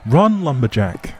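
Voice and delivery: sharp high yell to the horse; panicked command to run; urgent shout. Acted. Urging horse to flee.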